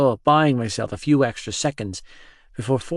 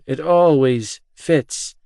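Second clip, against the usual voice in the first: weary groan; 3 semitones higher, 5 dB louder, slower than usual. Acted.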